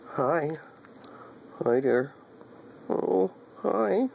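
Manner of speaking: high squeaky hello to the dog; high sing-song hi. Real, not acted. Greeting dog in baby voice.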